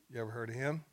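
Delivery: light rise at the end of "him"; "him" ending on a little upturn; upward inflection. Retold or imitated. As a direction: lift "him" slightly, as a leading question. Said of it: "ended with a little upward inflection".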